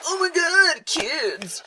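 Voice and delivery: put-on a high, startled "Oh my God", falling on "kids"; surprised delight. Danny greeting the kids who found him, in high mock surprise. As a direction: gush at them, caught off guard. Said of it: "But he's like".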